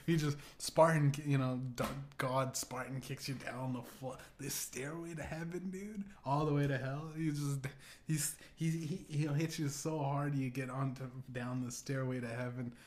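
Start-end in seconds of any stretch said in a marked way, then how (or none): none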